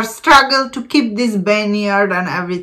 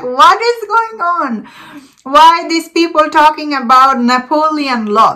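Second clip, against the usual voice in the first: mock confusion, pitched up; retold bewilderment; 4 semitones higher than usual. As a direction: act out a puzzled viewer asking what this is. Retold bewildered reaction to the film.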